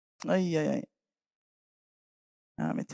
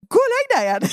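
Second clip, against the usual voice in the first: exasperated Eli; 12 semitones higher, 4 dB louder, much faster than usual. Acted. Eli sending him back.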